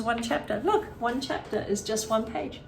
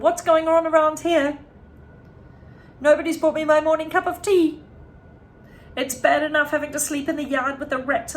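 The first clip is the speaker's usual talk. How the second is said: put-on louder, higher furious old woman's shout; shouting grandma; 7 semitones higher, 6 dB louder than usual. A narrator's reading. Grandma shouting down at the family for her tea, loud and high. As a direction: bellow it down at them like an angry giantess. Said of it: "she shouted".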